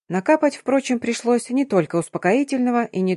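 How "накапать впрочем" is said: usual speaking voice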